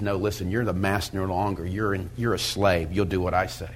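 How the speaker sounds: low, quiet hint of a master; voiced cigarette. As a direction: lightly voice the cigarette taking control. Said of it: "the cigarette now says".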